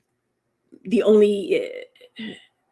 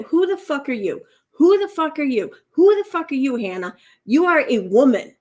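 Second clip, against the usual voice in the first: higher, louder mock confrontation; imitated indignant put-down; 6 semitones higher, 6 dB louder than usual. Commentator mimics her telling Hannah off, high emphatic put-down. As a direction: throw each question up high and hard, mimicking her. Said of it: "when she says that".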